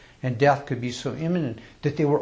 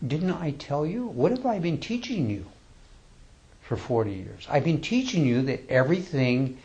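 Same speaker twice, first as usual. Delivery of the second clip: lightly voiced Buddha; 5 semitones higher than usual. Buddha voiced speaking to monks.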